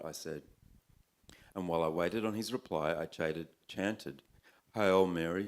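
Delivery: measured, performed poetry recital; poem reading. A narrator's reading. Poet reads a bush tale to an audience, recited. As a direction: read it out as a wry narrative poem.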